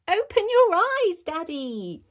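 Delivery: high, loud urging; high-pitched insistent delight; excited child. Acted. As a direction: call to Daddy in a high thrilled voice. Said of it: "said Peppa".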